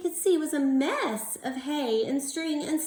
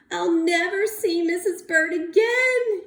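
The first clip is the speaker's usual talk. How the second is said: louder, higher cry; 6 semitones higher, 6 dB louder than usual. Acted. Bird flying off, crying for his wife. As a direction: cry it out in despair. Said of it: "he cried".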